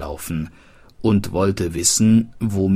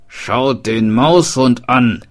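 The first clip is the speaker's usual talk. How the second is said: smith's call; 4 semitones higher, 6 dB louder than usual. Acted. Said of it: "rief der Schmied".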